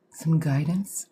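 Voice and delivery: whispered, mysterious "some guidance?"; mock mystic offer. Shown as a demonstration. Psychic host offering viewers guidance, in a mock mystic whisper. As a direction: breathe it like a hammed-up fortune teller. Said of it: "I can't even say it without sounding like an asshole".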